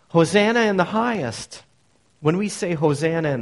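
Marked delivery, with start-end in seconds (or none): 0.1-1.6 a lifted, louder cry of praise; proclaimed praise. Shown as a demonstration. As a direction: ring it out as praise to God. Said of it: "become a note of praise".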